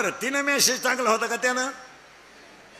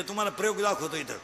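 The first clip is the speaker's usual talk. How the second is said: normal talking voice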